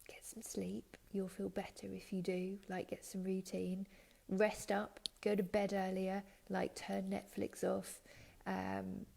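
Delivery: tuck them in with practical advice; comforting voice. Retold or imitated. God gently tells the exhausted listener to sleep, whispered. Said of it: "and says".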